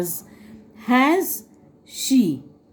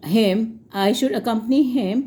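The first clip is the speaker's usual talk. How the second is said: slow dictation; much slower than usual. Shown as a demonstration. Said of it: "मैं इसलिए slowly बोल रही हूँ".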